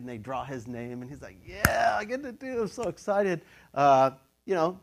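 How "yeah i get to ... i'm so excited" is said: lightly voiced excited priest, higher pitch; mock-thrilled at getting picked. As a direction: act out an excited lottery winner. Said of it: "he's probably excited".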